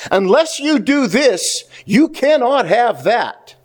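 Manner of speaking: slow, weighty stress on "Unless" and "cannot"; stressed condition. Retold or imitated. Preacher voicing God's condition to the congregation, slowly stressed. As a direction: spell out the rule, leaning on "Unless" and "cannot". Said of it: "God is stressing two words".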